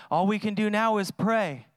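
lightly voiced resignation, falling away; a hint of giving up; resigned mock quote. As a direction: imitate a half-hearted shrug. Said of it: "It's like".

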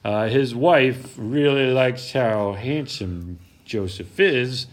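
normal talking voice

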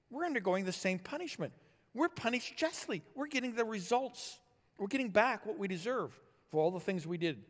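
insistent rebuke, pitched high. Acted. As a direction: press the point on a fellow wrongdoer. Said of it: "He rebuked the other".

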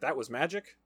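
mildly surprised, rising question; dawning realization. Retold or imitated. Man realizing magic was used on him, mild dawning surprise.

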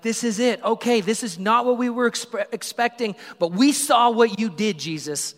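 high, loud, fast-tumbling crowd voice; excited crowd. Retold or imitated. Preacher voicing the crowd cheering Jesus on, excited and loud. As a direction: gush like thrilled townsfolk who saw it all. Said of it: "They're like".

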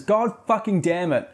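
milder mock curse. Narrator repeats the boy's curse from the book, mildly exasperated. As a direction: repeat the curse with amused disbelief. Outburst quoted again.

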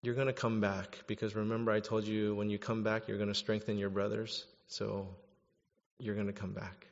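soft, low words of comfort; hopeful reassurance. Acted. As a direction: reassure a fallen friend quietly. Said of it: "but also of hope that".

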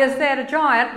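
mock polite asking about the giant; a lightly voiced hesitant query; gently questioning "giant"; mild timid question. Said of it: "you actually don't have to say".

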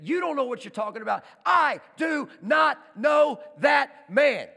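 high shouted outburst, slowing to one word at a time; furious denial. Acted. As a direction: yell the denial, hammering every word. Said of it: "he starts to cuss and swear".

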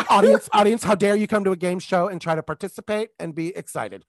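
loud, rushed mock reprimand; mock host scolding. Host telling off an excited audience, mock scolding. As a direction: scold the crowd in mock outrage.

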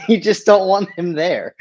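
words broken by laughter; giggling through the line; laughing while talking. Real, not acted. Laughing while describing uncle.

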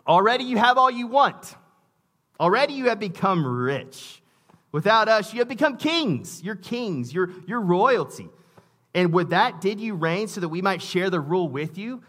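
mocking, overdone scripture read; sarcastic reading. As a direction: read Paul's words dripping with sarcasm. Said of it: "this is pure sarcasm".

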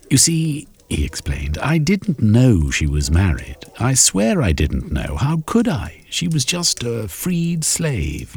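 high, pleading gentleman; Shermy protesting. Acted. Shermy defends himself to the club, high pleading protest. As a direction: swear you didn't know.

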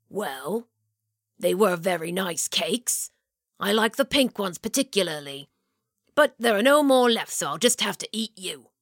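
a hint of a hungry monster musing; storyteller doing the beast gently. A narrator's reading. Beast speaks.

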